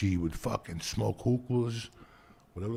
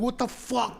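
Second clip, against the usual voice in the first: high, disbelieving cry; can't believe what he's hearing; mock outrage; outraged surprise; 13 semitones higher than usual. Outraged reaction to curry.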